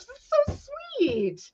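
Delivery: high, breathless whisper; touched whisper. Real, not acted. Moved by a viewer's gift, high breathless whisper.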